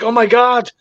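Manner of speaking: imitating outraged churchgoers; mock horror. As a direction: mimic shocked believers, drawing out each charge. Mocking shocked online Christians.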